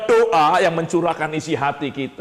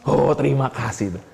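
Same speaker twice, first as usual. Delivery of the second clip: lightly voiced grateful prayer; happy prayer. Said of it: "Kalau lagi senang ngomongnya apa?".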